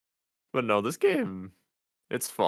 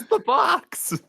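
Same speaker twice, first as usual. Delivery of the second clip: presenter voice; 5 dB louder, slower than usual. Pretend. Shows game box jokingly.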